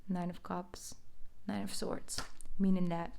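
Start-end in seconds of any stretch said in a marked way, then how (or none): none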